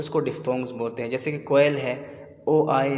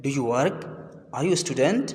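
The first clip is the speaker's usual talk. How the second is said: two questions, each climbing at the end, "student" highest; rising question intonation; much slower than usual. Shown as a demonstration. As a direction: lift the pitch on "work" and "student". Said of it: "आपके अल्फाज में उतार चढ़ाव आता है".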